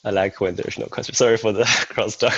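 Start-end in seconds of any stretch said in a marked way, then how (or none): 1.1-2.3 real chuckle inside the words; laughing apology. Real, not acted. Colleague apologising to the meeting for crosstalk, laughing. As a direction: apologise with a light laugh breaking in.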